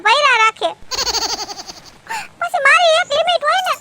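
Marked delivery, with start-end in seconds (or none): 2.4-3.8 hurt wife near crying; tearful complaint. Acted. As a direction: voice breaking with tears while pleading. Wife weeping telling uncle her woes. (રડમસ અવાજે ફરિયાદ)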